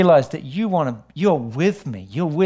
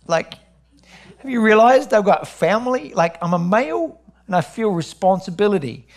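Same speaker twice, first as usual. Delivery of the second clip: higher, strained worried voice; anxious plea; 4 semitones higher than usual. Retold or imitated. Father tells God he is scared for his family, anxious. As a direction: let the fear climb as you question God.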